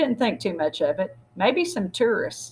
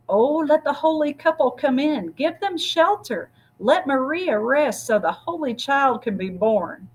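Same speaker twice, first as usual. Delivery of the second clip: pleading villagers; 6 semitones higher than usual. Acted. Procession singers plead at door.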